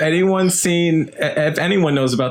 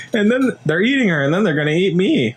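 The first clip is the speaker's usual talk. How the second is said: quoting the movie line; 3 semitones higher, faster than usual. Retold or imitated.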